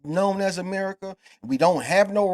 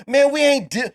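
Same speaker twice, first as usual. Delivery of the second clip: confrontational scolding; 4 semitones higher than usual. Acted. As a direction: put the offender firmly in his place. Acts out confronting Andrew Schultz.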